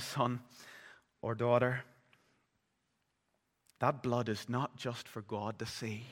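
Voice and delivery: put-on gently calm your frightened child; reassuring father.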